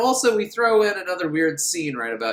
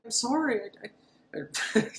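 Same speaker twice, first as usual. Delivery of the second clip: higher, trailing into a scared whisper; stammering apology; 7 semitones higher, 5 dB quieter than usual. Retold or imitated. Boy caught by the tall man, scared stammer. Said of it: "boy caught, stammering apology".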